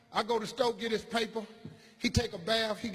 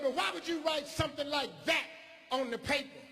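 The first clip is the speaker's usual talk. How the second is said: teacher voice; 7 semitones higher than usual. Retold or imitated. Teacher questions, shouted.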